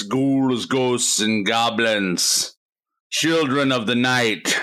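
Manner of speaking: slow, lightly spooky villain voice; Vincent Price voice. Acted. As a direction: savour each creepy word, horror host. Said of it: "your Vincent Price voice".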